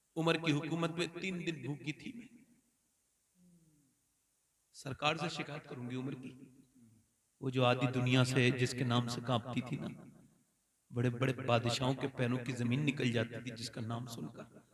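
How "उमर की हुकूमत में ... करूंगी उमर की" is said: put-on crying, tearful voice, lower, quieter. Retelling a hungry old woman's complaint, acting out crying speech. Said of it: "तो रो के बोली".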